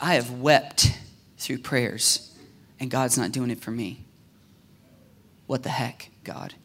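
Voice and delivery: low voice sinking away to very soft; acted dejected prayer. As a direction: let the complaint to God fade out, hurt. Acted hurt prayer of childless woman.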